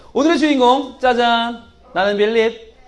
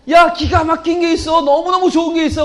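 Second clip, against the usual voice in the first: excited; 5 semitones higher than usual. Acted. Philip excited telling friend.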